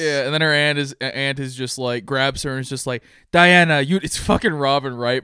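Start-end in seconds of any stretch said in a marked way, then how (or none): 3.3-4.0 lightly imitated Greek-accented scolding; aunt's odd Greek accent; mock Greek accent. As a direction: put on a weird Greek accent. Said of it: "in this weird Greek accent".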